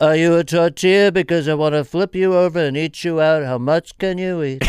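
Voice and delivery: hammed-up Donald Trump pickup line; Trump impression. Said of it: "Donald Trump".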